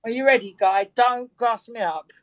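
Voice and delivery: broad Birkenhead accent, teasing warm-up; native Birkenhead accent. Shown as a demonstration. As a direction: slip into your real Scouse-like accent. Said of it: "showed you what my real voice was like".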